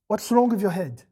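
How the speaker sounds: plain, level rebuke. Pretend. Preacher to the parents, a plain rebuke. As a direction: ask it evenly. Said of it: "the absolute minimum you wanna ask".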